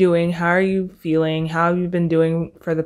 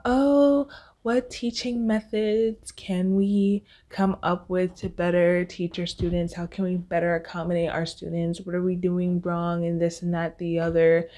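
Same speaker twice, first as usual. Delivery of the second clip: mock concerned teacher. Imagined teachers' meeting, mockingly quoted.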